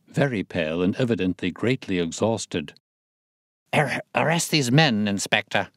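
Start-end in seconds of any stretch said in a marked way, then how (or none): 3.7-5.7 gasping. Acted. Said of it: "he gasped".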